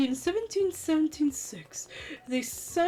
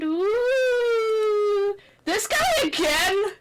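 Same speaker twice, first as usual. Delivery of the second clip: surprised; 7 semitones higher, 5 dB louder, much slower than usual. Acted. Reacting to vision.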